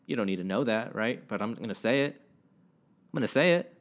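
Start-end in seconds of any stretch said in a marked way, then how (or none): 2.2-3.7 higher, louder, slower insistence on "say"; emphatic declaration. Real, not acted. Telling the listener he'll share anyway, emphatic. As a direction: lean into "say" and stretch it out.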